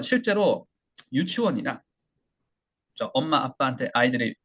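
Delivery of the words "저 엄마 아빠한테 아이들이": normal talking voice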